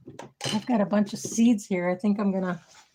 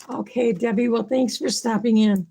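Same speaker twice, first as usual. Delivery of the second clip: losing voice; 3 dB louder than usual. Real, not acted. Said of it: "I'm losing my voice here".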